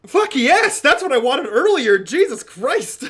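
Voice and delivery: loud, high shout of triumph; real elated outburst. Real, not acted. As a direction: explode with relief and excitement. Player celebrates the roll result.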